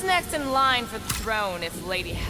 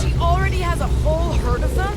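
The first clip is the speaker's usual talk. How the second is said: shouting, high; 7 semitones higher, 8 dB louder than usual. Acted. Heated argument, shouting back.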